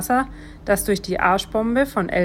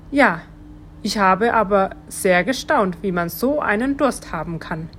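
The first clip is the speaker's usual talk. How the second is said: mildly astonished worm. Acted. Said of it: "antwortet der Wurm etwas erstaunt".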